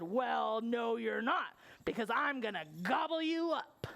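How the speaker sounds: lightly gruff troll threat; threatening troll. Acted. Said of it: "And he said".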